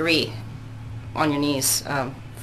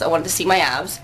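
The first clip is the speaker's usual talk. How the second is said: ordinary talk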